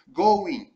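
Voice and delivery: Going said as gowin, with no G at the end; pronunciation demo. Shown as a demonstration. Teacher showing students how Going sounds. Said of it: "não se pronuncia o G".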